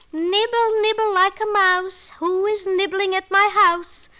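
high, sing-song crone; a teasing old witch. Acted. Witch voice from house.

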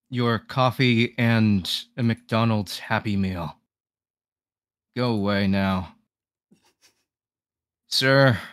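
slow bored drive-thru worker; deadpan the drive-thru order, slowly; fast food worker. Acted. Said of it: "Knives retail slash fast food worker voice lines".

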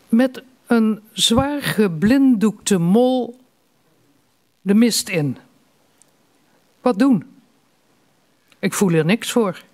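slow, spaced delivery, line by line; measured reading of a short poem; poetry recital. Acted. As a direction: recite the poem with a long pause after each line.

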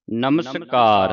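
"ਨਮਸਕਾਰ" slow and joined, with clear s; said as one word. Shown as a demonstration. Teacher modelling for students, "ਨਮਸਕਾਰ" joined, with plain s. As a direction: say "ਨਮਸਕਾਰ" unbroken, stretching kaar. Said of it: "ਇਕੱਠਾ ਹੀ ਉਚਾਰਨ ਕਰਨਾ".

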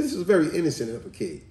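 fast, laughing comment; quick words through a laugh; amused laughing. Real, not acted. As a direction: chuckle through the remark. Laughing at the boy's answer.

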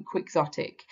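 slow careful word. Shown as a demonstration. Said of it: "another difficult word to say".

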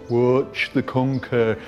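slow, eerie hypnotist chant; spooky voice. Retold or imitated. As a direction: drone it slowly like a hypnotist. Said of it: "talking in this spooky voice".

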